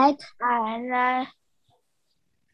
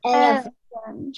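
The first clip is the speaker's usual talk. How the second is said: group repeating after leader. Real, not acted. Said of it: "everyone repeat after me".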